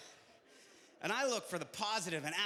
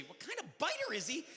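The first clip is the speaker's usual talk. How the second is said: incredulous echo; 3 semitones higher than usual. Retold or imitated. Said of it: "come up to me and go".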